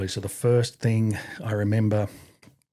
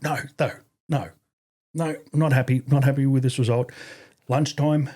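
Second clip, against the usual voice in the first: stern sergeant major; 3 semitones higher than usual. Retold or imitated. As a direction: lay down the law like a hard but fair RSM. RSM voicing his punishment.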